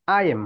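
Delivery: "I am" with a rising end; "I am" sung upward as a question; rising question tune. Shown as a demonstration. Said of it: "ইন্টোনেশনটা বৃদ্ধি করে দেন".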